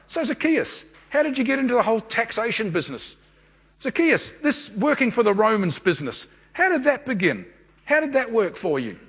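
imagined friendly interview, lifted in pitch; curious questioning. Pretend. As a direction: ask with open curiosity, as if over lunch. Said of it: "there were a lot of question marks".

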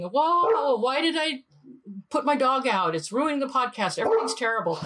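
high, mock frantic self-scolding; hammed-up worry over a small mistake; self-blaming panic. Host berating herself over the barking dog, mock frantic. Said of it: "beating myself up for three hours saying".

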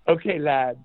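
mock English accent, lightly done; bad fake English accent. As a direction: put on a dodgy English accent. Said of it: "really bad fake English accent".

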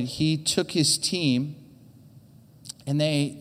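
ordinary talk

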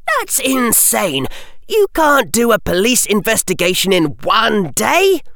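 put-on young boy outraged at the verdict. A narrator's reading. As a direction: protest it in disbelief. Harry protests loudly.

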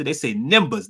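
"numbers" said like "nimbers"; Florida way of saying. Shown as a demonstration. Telling his friend how they say it in Florida, "numbers" as "nimbers". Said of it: "in Florida".

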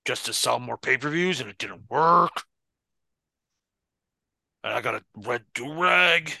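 a light take on the wrestler's promo voice; Sid Justice impression. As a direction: drag it out like a brooding heel. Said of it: "talking like Sid Justice".

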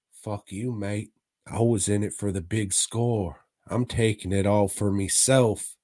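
low British villain; mock British accent. Safecracker betraying the wife, low mock British accent. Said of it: "I can't do a British accent".

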